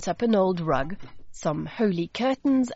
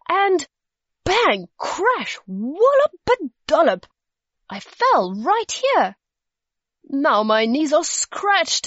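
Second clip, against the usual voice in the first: high, animated storybook dragon voice; agitated creature explaining itself; flustered dragon; 6 semitones higher, 3 dB louder than usual. A narrator's reading. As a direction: recount the mishap with swooping, dramatic emphasis. Flustered dragon tells of crash.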